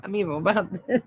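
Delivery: low words dissolving into giggles; guilty laughing. Real, not acted. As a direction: confess it while starting to laugh. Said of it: "I shouldn't laugh".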